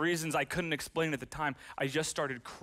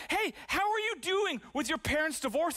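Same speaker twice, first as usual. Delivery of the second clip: people asking kindly; 12 semitones higher than usual. Retold or imitated. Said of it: "my people would ask me".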